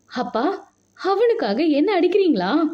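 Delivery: stunned daughter asks her father why he hit her, shocked. Acted. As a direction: cry out in disbelief at her father. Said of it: "அதிர்ச்சி விலகாமல் கேட்டாள்".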